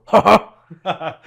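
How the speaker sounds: a short high imitated "ha ha"; retold chuckle, hammed up a little; mock laugh. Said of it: "you hear Fit go".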